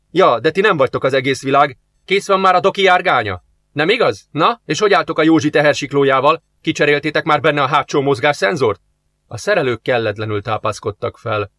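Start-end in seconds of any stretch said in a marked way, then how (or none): 0.1-8.8 gruff boss. Acted. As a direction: scold the slackers with a list of jobs. Boss scolds workers.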